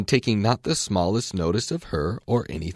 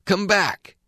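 much higher, louder call; calling after her; 12 semitones higher, 4 dB louder than usual. A narrator's reading. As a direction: call her back across the grass. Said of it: "the caterpillar called after her".

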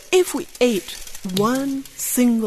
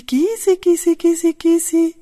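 frog call; 8 semitones higher, 3 dB louder than usual. Pretend. Calling the frog again.

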